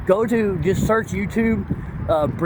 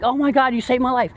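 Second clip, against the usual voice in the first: mock grateful wife; 6 semitones higher, faster than usual. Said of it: "the wife's like".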